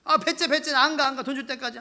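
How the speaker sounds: high, stubborn refusal to budge; brazen hollering. Acted. Creditor refusing to leave until paid, brazenly. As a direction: dig in noisily, acting the pushy creditor. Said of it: "고성방가하면서 소리 지르는".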